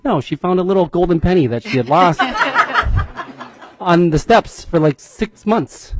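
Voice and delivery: laughing through the words; a father laughing at his daughter's little joy. Real, not acted. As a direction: chuckle fondly while telling it.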